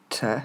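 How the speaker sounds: TE alone, no R; short separate "Te"; R left silent. Shown as a demonstration. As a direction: isolate a neutral "te" for learners. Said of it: "on n'entend pas le R".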